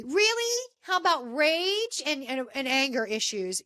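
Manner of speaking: really, as in come on; mocking disbelief at his excuse; sarcastic disbelief. Real, not acted. Reacting to his depression claim.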